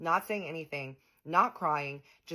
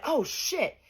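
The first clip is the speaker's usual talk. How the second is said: mock pained yelp; 10 semitones higher than usual. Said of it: "He went".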